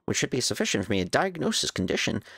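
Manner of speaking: lightly voiced nerdy scholar; prim, precise nerd reading. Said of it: "that's a nerdy voice".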